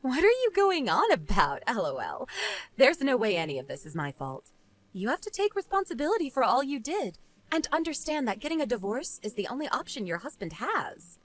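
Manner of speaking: understated dismissive woman; unsympathetic rebuff. Acted. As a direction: coolly refuse the blame. Jane rebuffs Eleanor in the story.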